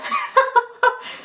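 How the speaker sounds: high airy giggle at her own joke; breathless high giggle. Real, not acted. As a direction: let out a squeaky silent laugh. Laughing at own impression.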